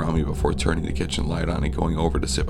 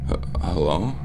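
groggy; 3 semitones higher than usual. Acted. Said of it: "I said groggily".

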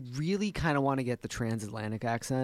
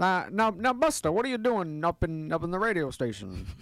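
put-on old timer voice; 5 semitones higher than usual. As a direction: scold Buster like a grumpy old-timer. Sudden put-on character voice.

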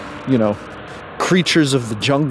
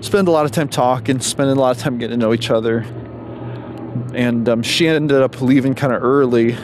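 out of breath. Real, not acted. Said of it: "a little out of breath 'cause I'm walking pretty fast".

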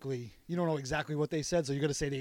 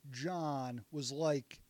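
drawn-out like; much slower than usual. Shown as a demonstration. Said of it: "telling a story where I'm like".

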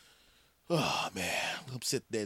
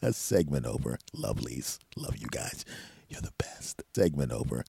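fake nice voice; 9 semitones lower than usual. Host cooing goodbye to his listeners, fake nice. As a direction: coo sweetly at the listeners. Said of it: "that nice voice crap".

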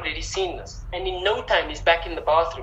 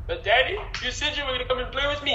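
put-on child crying; 7 semitones higher, faster than usual. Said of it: "He starts crying".

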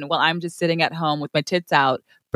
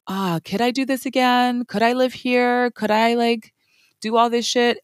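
tag wistful self-questioning; 5 semitones higher than usual. Retold or imitated. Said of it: "you're always like".

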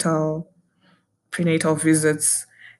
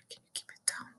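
barely voiced, much softer imitated husband; hushed whisper; 22 dB quieter, much faster than usual. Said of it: "He was like".

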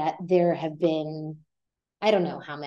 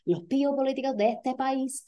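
mock indignant local; 6 semitones higher, 3 dB quieter than usual. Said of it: "they'll say".

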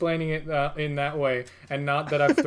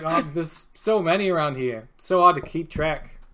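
put-on casual New York accent, bartender talk; lightly voiced New York bartender; New Yorker bartender. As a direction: play a local New York barman. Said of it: "this guy's turned into a New Yorker".

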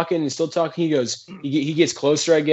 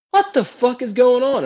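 put-on drunk bewilderment; 8 semitones higher than usual. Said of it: "and I'm like".

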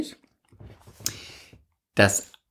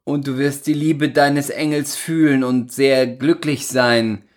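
ironic recital. Acted. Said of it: "Du schweifst wieder ab mit deinem Ton".

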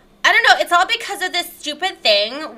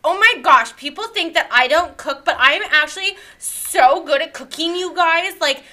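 lightly voiced whiny victim, a hint of a valley girl; self-pitying influencer character. A self-pitying podcast guest complains to the host, lightly whiny. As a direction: mope about the haters, a little put-upon. Plays the character Lyre Lynn.

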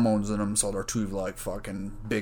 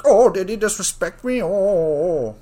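high, louder mock fretting; mock touchy self; 9 semitones higher, 8 dB louder than usual. Mocking his own touchiness over disrespect, fretting. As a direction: ham up being offended. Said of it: "But I'm so like".

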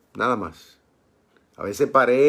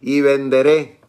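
"venderé" louder, stressed on the final É; accent on the E; 2 semitones higher, 6 dB louder, slower than usual. Shown as a demonstration. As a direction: hit the last E of "venderé" firmly. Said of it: "con acento en la E". ("venderé" fuerte, con acento en la E)

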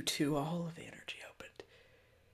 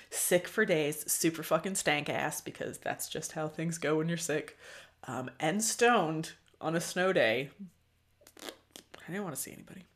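normal talking voice

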